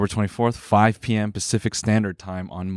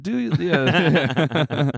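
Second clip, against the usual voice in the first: put-on Japanese accent; 6 semitones higher, much slower than usual. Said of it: "say it in a racist Japanese accent".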